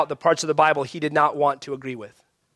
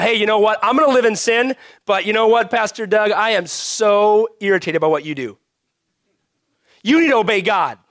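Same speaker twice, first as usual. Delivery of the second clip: higher, louder whiny complainer; mock hypocrite; 4 semitones higher, 4 dB louder than usual. Pastor mimicking a hypocrite addressing Pastor Doug, higher and louder. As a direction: play the sinner scolding the pastor.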